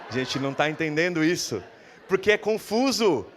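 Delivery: confused protest. Acted. Disciples confused, pleading to Jesus.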